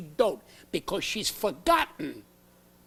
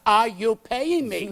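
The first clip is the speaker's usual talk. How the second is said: slow, louder, final hammering demand; escalating demand; 2 semitones higher, 6 dB louder, slower than usual. Retold or imitated. To a pushy headliner, slow loud demand. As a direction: hit paying me hard and slow.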